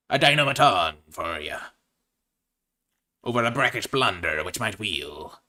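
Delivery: a light pirate growl on arr; mild pirate patter. Acted. Drafter keeping up pirate talk for balance, lightly hammed. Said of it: "talk like a pirate this entire draft".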